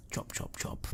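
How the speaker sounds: chop, chop, chop whispered very soft, far off. Shown as a demonstration. GM echoing the unseen chopping, faint whisper. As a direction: breathe the chops like a distant knife. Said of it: "repeated sound cue".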